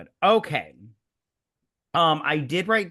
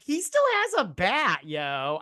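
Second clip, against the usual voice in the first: mock disbelief; 5 semitones higher, slower than usual. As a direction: act out shouting at the movie, pitched up high. Retelling own reaction to scene.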